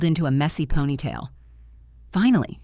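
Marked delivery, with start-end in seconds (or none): 2.1-2.6 eye-rolling. Acted. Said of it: "she said, rolling her eyes".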